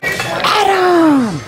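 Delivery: high shouted call of a name. Real, not acted. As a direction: yell across the room to a friend. Calling out to a friend.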